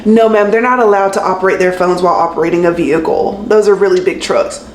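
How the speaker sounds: imitating a condescending agent; measured, talking-down explanation. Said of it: "she said this so condescending".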